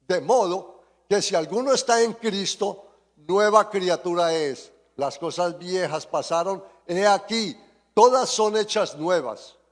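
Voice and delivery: measured, projected scripture reading; lectura bíblica. Real, not acted. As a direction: proclaim the verse, lifting the last phrase. Quotes scripture to congregation. (lectura proclamada de la Biblia)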